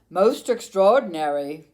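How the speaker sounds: amazed exclaim. Acted. Doctor examining striped Camilla, loud and amazed. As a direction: marvel at a case never seen. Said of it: "he exclaimed".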